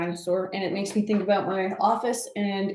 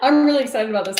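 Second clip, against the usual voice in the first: excited; 3 semitones higher, 6 dB louder, faster than usual. Real, not acted. Repeats excitement twice.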